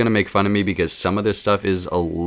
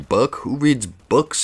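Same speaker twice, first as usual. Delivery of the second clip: mock scoffing viewer; 7 semitones higher, much slower than usual. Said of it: "you guys are thinking".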